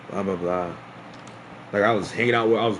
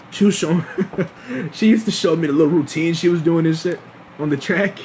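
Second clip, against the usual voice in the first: words broken up by giggles; laughing; 5 semitones higher than usual. Real, not acted. Telling friends about her dance routine, giggling. Fond memory of her dancing.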